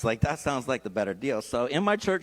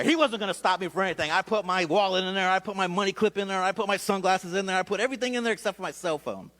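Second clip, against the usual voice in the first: indignant; 6 semitones higher than usual. Real, not acted. Defiantly emptying everything in car.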